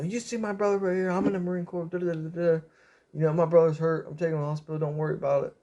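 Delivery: high, worked-up retelling of a confrontation; choice words. Retold or imitated. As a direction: imitate a brother setting someone straight, not shouted. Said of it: "he has some choice words".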